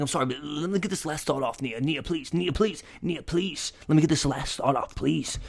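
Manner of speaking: repeated, hurried begging; mock pleading. Fan begging girlfriend to let him finish, playful pleading. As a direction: plead for one last word.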